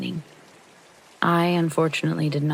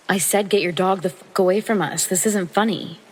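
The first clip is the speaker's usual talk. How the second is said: retold angry retort; 3 semitones higher, 3 dB louder than usual. Confronting man who laughs at her.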